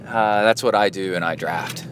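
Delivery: mock-proud braggart with a laugh; mock loud bragger. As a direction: imitate the boastful guy, lightly. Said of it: "kinda loud".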